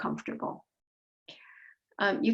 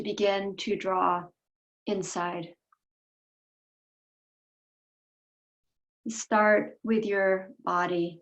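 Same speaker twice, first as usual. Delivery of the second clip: unhurried meditation voice with long pauses between phrases; guided meditation. Real, not acted. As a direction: guide them gently inward, leaving space after each instruction.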